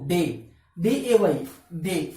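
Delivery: डे with a clipped pure e; common way. Shown as a demonstration. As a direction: say डे as a short single vowel. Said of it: "हम बोलते क्या है?".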